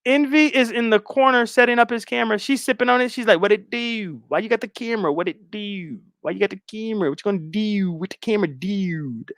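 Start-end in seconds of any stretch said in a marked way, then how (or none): 3.4-9.3 attempted Baltimore accent. Tipsy guest asking about the camera, mock Baltimore accent. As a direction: overdo the Baltimore vowel in "do". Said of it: "emphasize the D U".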